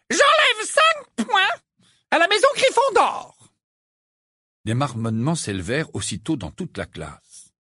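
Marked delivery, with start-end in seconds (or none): 0.1-3.4 very high, slow, satisfied; smug Umbridge. A narrator's reading. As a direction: deduct with relish. Ombrage voiced. (voix aiguë et suffisante)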